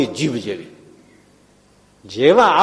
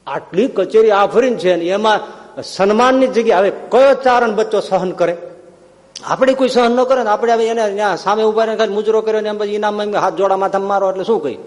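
indignant outrage; 7 semitones higher, 3 dB louder than usual. Acted. Ishwardan outraged at insult.

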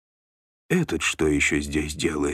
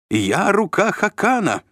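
high, louder self-important shout; 4 dB louder than usual. A narrator's reading. Shlom shouts over a guard's shoulder, high shrill yell. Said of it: "закричал он через плечо стражника".

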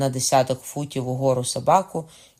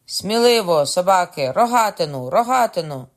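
loud, high urging; high, forceful hunting cries; frenzied shouting; 5 semitones higher, 5 dB louder than usual. A narrator's reading. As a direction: spur the dogs on and call for the weapon. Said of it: "шалено кричав".

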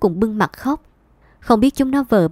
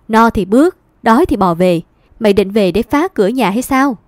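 louder, sharp scolding; angry rebuke; 5 dB louder than usual. Acted. Mother refusing to take her son back, furious. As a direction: hurl the words at him.

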